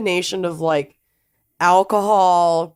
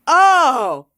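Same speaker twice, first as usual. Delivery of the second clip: high squeal of fake shock; mock shocked gasp; 9 semitones higher, 3 dB louder, much slower than usual. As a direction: gasp out the name in mock horror. Teasing gasp at husband's name.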